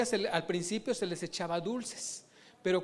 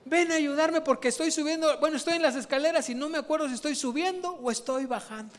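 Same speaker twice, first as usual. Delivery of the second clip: put-on confused old woman; 6 semitones higher than usual.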